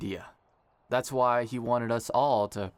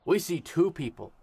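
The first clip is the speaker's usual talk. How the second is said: wedding officiant speech. Acted. Kai officiating the ceremony.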